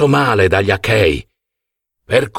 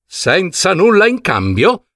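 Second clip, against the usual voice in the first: indignant high outburst; an outraged king's cry; Agamennone shouting; 8 semitones higher than usual. A narrator's reading. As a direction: throw the question back in fury. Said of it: "urlò Agamennone infuriato".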